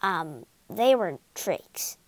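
sheepish. Acted. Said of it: "Oz said sheepishly".

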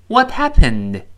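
"What happened" read out loud with a falling tune; read aloud. Shown as a demonstration. Teacher leads students in a loud read-aloud. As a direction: say it loud and clear for the class to copy. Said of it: "跟老师大声读两遍".

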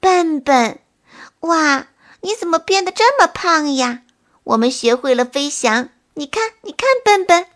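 bouncy, high excited calling. Acted. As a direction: show off with joyful energy. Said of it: "朋友们跳跃着说".

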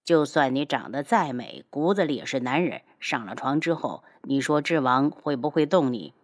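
low-pitched, controlled character voice; low, insinuating menace; cool taunting man. Acted. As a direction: taunt from a position of power. Cool rival taunts the flustered youth.

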